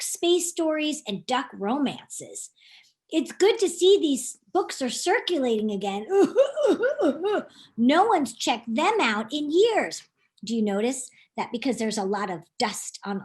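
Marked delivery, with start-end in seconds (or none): 3.1-10.0 laughing librarian. Acted. Librarian Max voiced, laughs.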